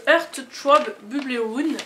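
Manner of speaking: English name read slowly in a heavy French accent; clumsy English accent. Real, not acted. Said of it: "Excusez-moi pour mon accent qui est juste horrible". (nom anglais lu lentement avec un gros accent français)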